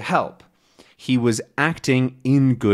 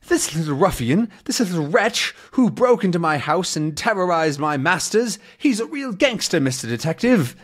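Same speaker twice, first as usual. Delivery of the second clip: indignant butler; 5 semitones higher than usual. Acted. Butler Nestor accuses Tintin.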